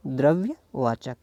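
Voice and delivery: द्रव्यवाचक drawn out in two pieces; slow, split द्रव्य and वाचक; slow dictation. Shown as a demonstration. Teacher dictates answer while writing.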